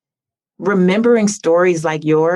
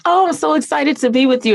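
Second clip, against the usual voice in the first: quoting Barbara; 7 semitones higher, faster than usual. Retold or imitated. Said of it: "Barbara was saying".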